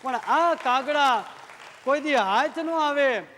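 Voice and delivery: very slow, drawn-out poetic recitation; recited verse. Acted. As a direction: savor each line like a closing couplet. Closing poetic lines. (ધીમું, ભાવભર્યું કાવ્ય પઠન)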